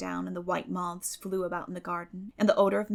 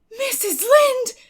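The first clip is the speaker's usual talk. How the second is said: much higher, loud, drawn-out startled cry; surprised cry; 12 dB louder, much slower than usual. A narrator's reading. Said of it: "cried Anne, springing to her feet in surprise".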